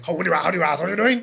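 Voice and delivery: mimicking white guy. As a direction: mimic a stiff outsider saying hello. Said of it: "come up to Bajan's place street and say".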